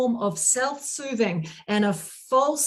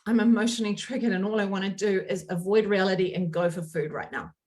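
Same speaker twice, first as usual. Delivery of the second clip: lower, quicker confession to oneself; self-aware admission; 4 semitones lower, faster than usual. Acted. Coach voices client catching herself triggered, self-aware admission. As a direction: admit it under your breath, sinking. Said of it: "you can now go".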